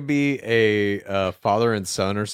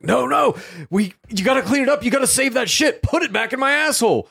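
high squeaky voice; 4 dB louder than usual. Acted. High squeaky Chalamet voice in skit.

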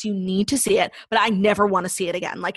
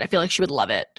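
whisper; 6 semitones lower than usual. Real, not acted. Aside about a friend.

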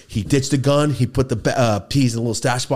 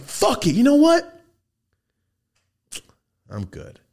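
mock outburst; 4 dB louder than usual. Retelling his reaction to the story.

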